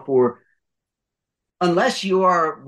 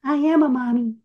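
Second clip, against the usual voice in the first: put-on little-girl character voice; 9 semitones higher than usual. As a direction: imitate a grown woman who sounds like a child. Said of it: "she would always say".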